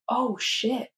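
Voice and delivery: unvoiced whisper of dismay; whispered oh shit. Realising she's bisexual, a shocked whisper. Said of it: "I was like".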